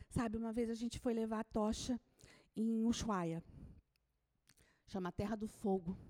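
ordinary talk, nothing marked

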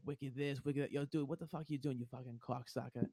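imitating Boston buddies' accent; casual Boston accent with dropped R's. Boston college buddies swearing at each other, Boston accent. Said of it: "all my buddies were from Boston".

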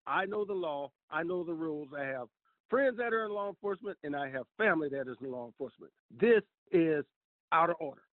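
firm, measured telling-off; retold stern warning to an officer. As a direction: lay down the rules sternly. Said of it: "with a stern voice".

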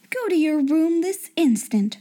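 high, sharp order; angry schoolmistress. Acted. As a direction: command her out. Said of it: "she was angry enough".

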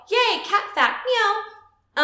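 high, loud squeal of glee, then a meow; over-the-top excited. Real, not acted. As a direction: gush with excitement and meow at the end. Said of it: "that was a little much".

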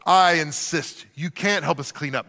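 mock-gracious host refusal, slowing on I insist; overly nice no-no-no; fake polite refusal. Host turning down guests' help, mock-polite. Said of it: "and you go".

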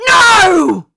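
high, loud horrified cry; anguished scream. A narrator's reading. Crow watching the prince fall into the fire, screaming. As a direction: scream it out in horror. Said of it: "Crow screamed".

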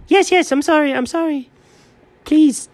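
high, frantic pleading; panicked apology. Acted. Cat gives in to Chuck's threat, panicked apology. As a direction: beg for mercy, pitch high.

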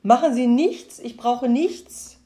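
loud, high, eager shouting, slowing at the end; loud, high excited call, ending slow. Acted. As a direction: cry it out triumphantly, drawing out the last words. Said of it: "rief der Mann".

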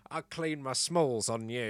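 slow, hammed-up admirer; drawn-out mock appreciation; imagined admirer. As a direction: play someone savouring an odd compliment. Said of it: "when somebody says washboard abs".

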